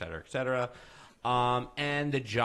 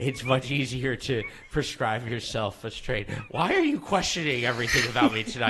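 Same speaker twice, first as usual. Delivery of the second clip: put-on Russian accent; 7 dB louder than usual. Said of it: "The Russian accent kinda came out of nowhere".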